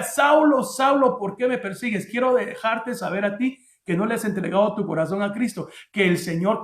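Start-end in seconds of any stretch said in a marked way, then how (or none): 0.0-2.1 heavenly summons, settling into the question. Acted. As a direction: call out the name as a voice from heaven. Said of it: "oyó una voz del cielo que le decía".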